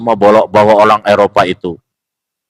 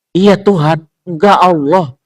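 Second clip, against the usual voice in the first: mocking quote; 9 semitones higher than usual. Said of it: "arguing person quoted".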